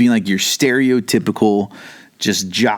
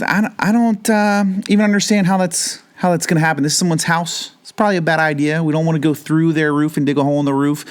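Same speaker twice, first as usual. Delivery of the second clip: much higher, fretful nerd voice; a nervous nerd protesting, pitched way up; nerdy worried friend; 6 semitones higher than usual. Retold or imitated. Friend on the mat objects to digging through the roof, high nerdy worry. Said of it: "doing the little nerd salute with the glasses".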